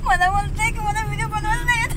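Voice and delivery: words spilling out through giggles; laughing. Real, not acted. Teasing her brother on camera, laughing. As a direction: still laughing while she talks.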